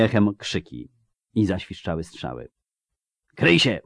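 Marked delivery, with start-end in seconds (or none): 3.4-3.8 high, urgent call; warning cry. A narrator's reading. Witcher warning friends of arrows, crying out. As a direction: cry a warning, pitch jumping up. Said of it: "krzyknął Wiedźmin".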